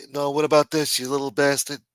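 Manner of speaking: spring it on them, imitating an accuser; lightly hammed-up challenge; confronting. Imitates Trump springing the evidence.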